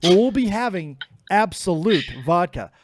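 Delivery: hammed-up seductive lounge voice; sexy voice. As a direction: lay on the fake seduction thick. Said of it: "when this voice comes on".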